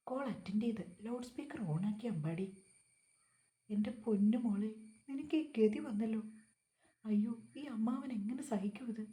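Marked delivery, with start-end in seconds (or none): 3.7-9.0 melodramatic wailing uncle. Acted. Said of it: "ശബ്ദം കാതിലേക്ക് തുളച്ചു കയറി".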